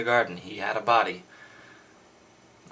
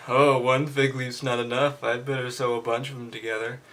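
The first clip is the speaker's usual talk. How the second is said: a lightly voiced, boastful Adam, faster at the end; bragging Adam; 2 semitones higher, 4 dB louder than usual. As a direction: show off the fig leaves like a smug husband. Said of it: "maybe this is a bit of a brag on the part of, um, Adam".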